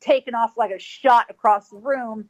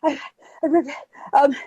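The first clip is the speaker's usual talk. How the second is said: acted panting stammer; out of breath; 3 semitones higher than usual. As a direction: struggle to get a word out between breaths. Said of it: "I'm out of breath".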